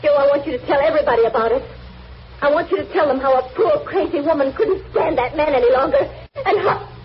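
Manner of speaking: rising, quickened, half-laughing; laughter breaking through the confession; crazed laughing confession. Acted. Dying wife to husband, crazed laughing confession.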